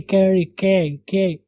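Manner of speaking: कै with a flat open "ae" vowel; कैरी, कै as "kae-ree, kae"; correct syllable. Shown as a demonstration. Teacher drilling the right sound, कै with open "ae". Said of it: "कै की नहीं".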